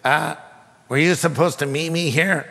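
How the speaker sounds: imitating a hesitant voice from next door; stranger's tentative question. Preacher voices the man in the next stall, tentatively. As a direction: ask it cautiously, with a pause. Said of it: "I hear this voice say".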